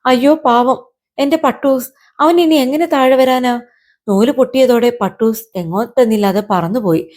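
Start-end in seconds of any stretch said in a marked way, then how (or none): 0.1-3.6 high-pitched mild lament; distressed cry. Acted. Girl crying out for her lost kite, mock lament. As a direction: wail lightly in acted dismay. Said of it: "ആബിദക്കുട്ടിയുടെ നിലവിളിയിൽ".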